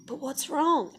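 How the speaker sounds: high, mock-concerned question; pestering partner. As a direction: imitate a partner prying. Mimics partner pestering her.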